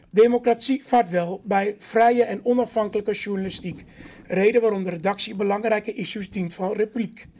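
measured rhyming Sinterklaas verse; poem reading. Acted. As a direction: read the rhymes out to the room, line by line. Reads a Sinterklaas poem aloud.

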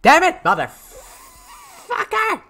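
half-angry, half-amused at his own death; laughing curse. Real, not acted. He gets killed, laughing.

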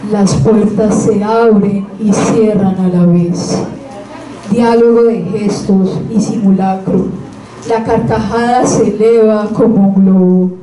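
measured reading with long pauses between verses; poetry recitation. Acted. Reading Juego de Sombras to listeners, measured recitation. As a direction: recite each line as its own statement.

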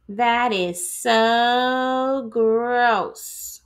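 slow, drawn-out grossed-out line; disgusted kid. Acted. Classmate reacts to the molted skin, slow and disgusted. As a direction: stretch out the disgust.

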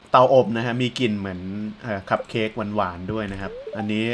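ordinary talk, nothing marked

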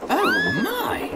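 very high-pitched alarmed exclamation; alarmed cry. Acted. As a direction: gasp it out in alarm, not shouted. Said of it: "Edward cried".

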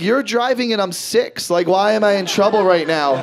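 lightly voiced small child; kid protesting. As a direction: protest like a confused little kid. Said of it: "I was like".

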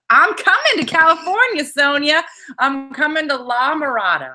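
a touch of sing-song excitement; playful announcement. Real, not acted. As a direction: tease a friend about a visit. Teasing announcement to friend.

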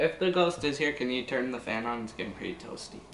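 hushed talk to ghost. Real, not acted. Joking to ghost, quieter.

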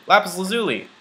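high thrilled exclamation; light up at the find; excited. Real, not acted. Spots rare ore in cave.

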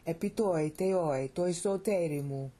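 "Epi toi teoi, toi soterimu" in two rhythmic phrases; chant-like phrasing, falling on "teoi", then "toi soterimu"; measured cadence. Shown as a demonstration. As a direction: break lightly after "teoi". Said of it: "That's her cadence".

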